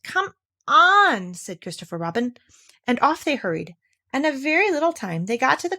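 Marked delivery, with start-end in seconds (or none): 0.0-1.3 high, bright urging; eager urging. Acted. Christopher Robin urges Eeyore to hurry, eager. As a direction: hurry them along.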